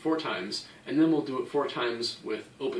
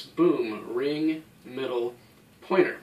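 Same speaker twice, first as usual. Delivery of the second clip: slow finger order; slower than usual. Shown as a demonstration. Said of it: "exploding out of the hand in that order".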